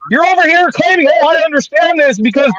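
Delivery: loud sharp voice. Real, not acted. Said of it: "Why are you shouting?".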